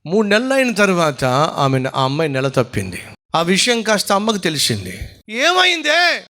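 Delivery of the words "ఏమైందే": high, sharp demand from an alarmed mother; sharp angry mother. Retold or imitated. Mother confronting her daughter, sharp and alarmed. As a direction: snap the question at her daughter.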